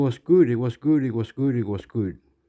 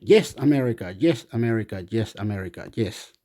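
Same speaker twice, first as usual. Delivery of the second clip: imitated compliance; 3 semitones lower than usual. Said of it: "then Australia said".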